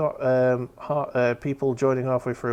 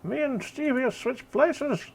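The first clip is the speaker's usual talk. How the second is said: high startled yelp, slow; shocked at the sudden swap; surprised; 14 semitones higher, slower than usual. Real, not acted. Sudden camera mixup.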